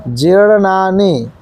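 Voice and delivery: जीर्णानि with a rolled, stretched r. Shown as a demonstration. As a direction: roll the र in जीर्णानि, slowly. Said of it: "ना के ऊपर भी र लगा हुआ है". (जीर्णानि में र पर ज़ोर)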